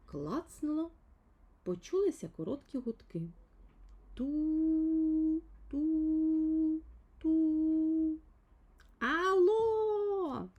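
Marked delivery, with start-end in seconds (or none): 4.1-8.2 flat high beeping like a dial tone; busy tone beeps. Acted. Line goes dead, imitating the dial tone in high beeps. 9.0-10.5 high, loud call into the dead line; exclaimed hello. A narrator's reading. Little man calls into the dead phone line, loud and high. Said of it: "вигукнув Півчеревичок".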